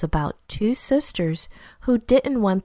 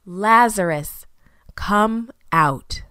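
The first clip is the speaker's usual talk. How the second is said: firm call, a little louder; shouted command; 3 dB louder, slower than usual. Acted. Jesus calling Lazarus out of the cave, firm and loud. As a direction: call him out of the tomb. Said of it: "Then Jesus shouted".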